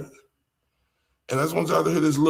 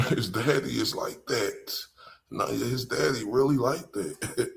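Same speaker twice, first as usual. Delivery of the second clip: laughing aside; 5 dB quieter than usual. Real, not acted. Laughing joke about father.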